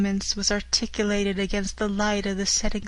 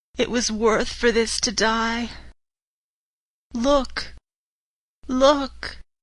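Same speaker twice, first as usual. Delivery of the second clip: weak, feeble, dying cry. Narrator reads a wounded gentleman struggling up and pointing to the narrator: feeble dying cry. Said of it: "a gallant gentleman. / holding his hand pressed to his side. The blood still gushed through his fingers. / Mister, / holding his hand pressed to his side. / with a feeble effort".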